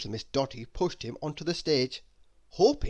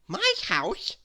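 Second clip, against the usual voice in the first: astonished; 8 semitones higher than usual. Acted. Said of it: "much astonished".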